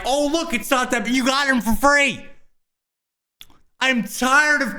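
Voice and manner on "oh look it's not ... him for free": higher, sing-song mock of a smug reviewer; lightly mocking high reviewer voice; mocking tech reviewer. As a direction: parody a glib reviewer brushing it off. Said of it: "that are like".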